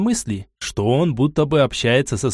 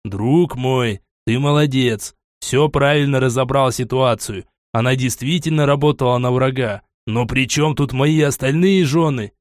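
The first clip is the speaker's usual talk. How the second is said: patient, gentle explaining; calm, as to a child. Acted. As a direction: talk him down like a child. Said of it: "спокойным тоном, как с ребёнком".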